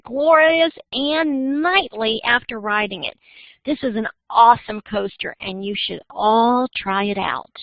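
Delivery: commercial pitch, building through the adjectives; announcer-style list with swooping emphasis; radio ad read. Shown as a demonstration. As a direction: sell it like an ad, stretching the final words. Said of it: "read this like it's an ad".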